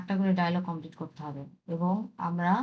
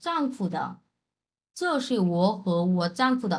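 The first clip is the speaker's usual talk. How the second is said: slow model reading; much slower than usual. Shown as a demonstration. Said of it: "answer এখানে কি আসছে".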